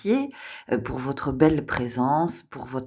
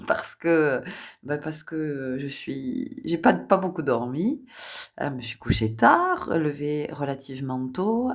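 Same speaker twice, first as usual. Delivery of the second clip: hoarse voice. Real, not acted. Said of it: "j'ai la voix un peu rauque".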